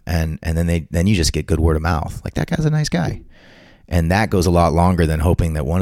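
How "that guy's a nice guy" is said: mock praise. Quoting what people say about you.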